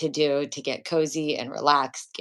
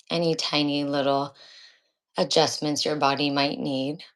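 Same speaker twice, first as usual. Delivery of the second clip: guided meditation. Acted. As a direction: ease them unhurriedly into the practice. Begins leading the guided meditation.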